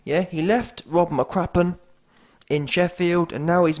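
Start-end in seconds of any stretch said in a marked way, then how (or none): none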